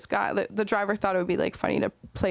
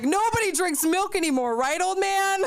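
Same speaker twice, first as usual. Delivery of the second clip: mock high voice; 9 semitones higher than usual. Mocking quote to old man.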